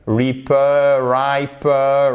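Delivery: reaper, riper tried out as possible readings; wrong guesses. Shown as a demonstration. Teacher trying wrong readings before correcting. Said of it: "no, ripe".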